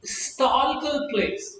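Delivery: a teacher slowly voicing "historical place" for learners; slow, high demo. Shown as a demonstration. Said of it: "If you pronounce it".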